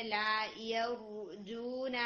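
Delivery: slow لا یرجون with a heavier ra; heavy ra. Shown as a demonstration. Teacher shows a heavier ra in یرجون. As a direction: thicken the ra in یرجون. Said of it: "را کو تھوڑا سا اور heavy کر کے".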